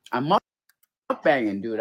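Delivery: talking through a mouthful of food; mouth full. Real, not acted. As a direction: chew and talk at once. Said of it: "I'm taking bites and talking".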